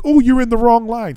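high-pitched mock officiousness; mocking attendant. Attendant sending traveler to another line, mockingly officious.

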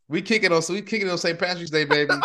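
hyped up. Real, not acted. Bragging to listeners about Saint Patrick's Day, hyped. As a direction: hype the crowd up for a party. Hyped celebrating Irish heritage.

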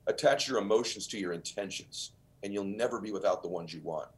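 a touch of hushed reassurance; tender mentor. Retold or imitated. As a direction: Wayne Dyer blessing the young Ed softly on the beach. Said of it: "he said".

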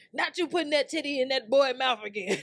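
high, loud, laughing mock of a nosy critic; mocking busybody. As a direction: mimic a judgy neighbour, cracking up. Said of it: "somebody's like".

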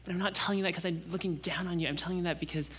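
soft, tender reassurance ending near a whisper; loving father reassuring his child; tender fatherly voice. Pretend. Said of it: "That says".

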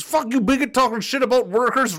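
mock angry reading. Streamer voicing an angry chatter, mock indignant. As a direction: read the insult like a whiny heckler. Reading hostile chat comment aloud.

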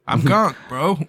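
put-on Brooklyn accent. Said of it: "And now we got a Brooklyn accent".

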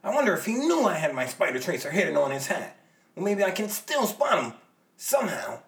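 loud, high excited shout. Acted. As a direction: yell it out in frustration.

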